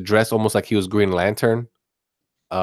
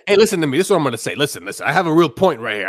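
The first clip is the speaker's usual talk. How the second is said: mimicking co-host; 4 semitones higher, much faster than usual. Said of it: "You literally just said".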